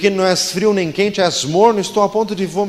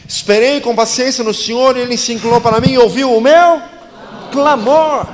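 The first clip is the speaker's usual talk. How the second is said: crying out; 4 semitones higher, 4 dB louder than usual. Acted. Quoting the psalm as a cry.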